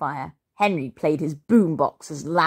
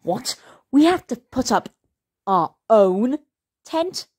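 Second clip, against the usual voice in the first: high, appalled disbelief; horrified; 6 semitones higher, 3 dB louder than usual. A narrator's reading. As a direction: ask it in outraged disbelief. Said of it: "Henry was horrified".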